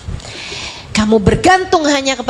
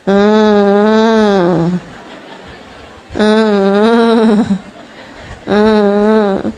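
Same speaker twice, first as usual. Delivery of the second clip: mock whiny child hums; 5 semitones lower, much slower than usual. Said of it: "nangisnya kayak gitu tuh".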